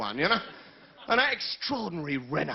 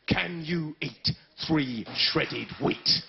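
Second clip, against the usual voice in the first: mock advert voice; 3 semitones lower, much slower than usual. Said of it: "They tell lies".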